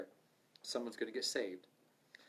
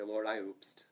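sheepish whispered confession; a sheepish hushed oops to the Lord; 3 semitones lower, slower than usual. Pretend. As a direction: whisper it like a guilty kid. Mock prayer confession.

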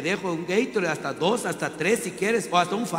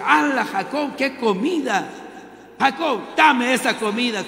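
hungry Esaú; 6 semitones higher, 4 dB louder than usual. Acted. Preacher voices hungry Esaú.

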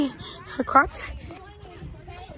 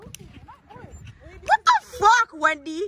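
stunned; 3 semitones higher, much slower than usual. Real, not acted. Stunned at friend's swing.

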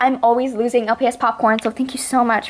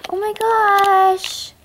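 stretched awe; 6 semitones higher, much slower than usual. Real, not acted. Awed at accessories, stretched.

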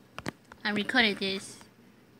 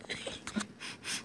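laugh; 13 dB quieter than usual. Real, not acted. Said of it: "I don't know why I'm just keep laughing".

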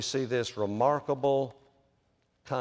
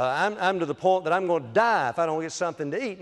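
hungry Esau, mildly hammed; 5 semitones higher, faster than usual. Esau overstating his hunger to Jacob, mock dramatic. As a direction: exaggerate how starving you are. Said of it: "He said".

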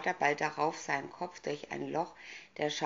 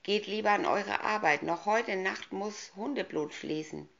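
evil queen; 4 semitones higher than usual. Acted. Villainess orders her henchmen.

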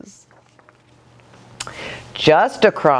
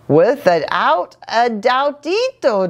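declaring; 5 semitones higher than usual. Acted.

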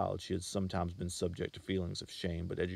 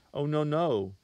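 higher, louder startled protest; alarmed cry; 9 semitones higher, 8 dB louder, slower than usual. Acted. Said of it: "she cried".

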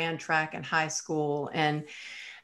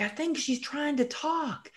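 high, lightly voiced nurse aside; a higher nurse voice; nurse remark; 10 semitones higher, 3 dB quieter than usual. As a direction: chirp it like a surprised nurse. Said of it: "And they're like".

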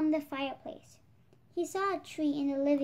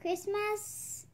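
small, soft buzzing question; softer fly voice asking about Christmas; 5 semitones higher, 7 dB quieter than usual. Acted. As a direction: say it like a tiny fly. Fly Guy asks, buzzing.

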